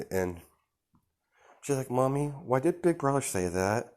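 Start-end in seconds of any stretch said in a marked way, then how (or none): 1.9-3.9 put-on small child voice. Little Eri asks mother.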